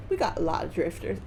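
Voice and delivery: put-on Southern accent. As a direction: lay on a rough Southern US accent. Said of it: "someone from the South who's drunk and Cartman".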